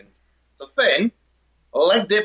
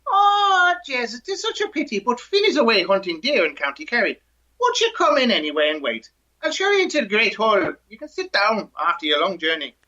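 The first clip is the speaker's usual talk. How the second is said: sweet Irish wife; 6 semitones higher than usual. Retold or imitated.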